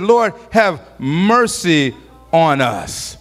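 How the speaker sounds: slow, low pleading prayer; drawn-out humble plea; slow plea for mercy. Retold or imitated. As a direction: beg slowly for mercy. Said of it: "They said".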